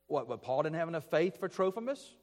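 mildly sarcastic question; a bit sarcastic. Shown as a demonstration. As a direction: feign doubt to make the point. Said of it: "with a bit of sarcasm".

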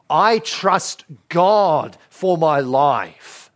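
slow, weighty declaration of trust; firm conviction. Acted. Jesus refusing the devil's offer, slow and resolute. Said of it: "And Jesus says".

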